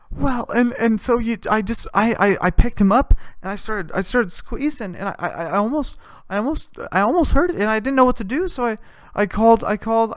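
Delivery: high, stammering tearful confession; high, halting and mildly weepy; mock half-crying. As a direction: imitate someone halfway crying, stumbling over words. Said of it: "she's, like, halfway crying the whole time".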